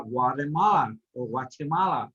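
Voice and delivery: Guatemala in an American accent, T altered; American English accent. Shown as a demonstration. Teacher showing students how Americans say it, American accent. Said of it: "They put an accent on T".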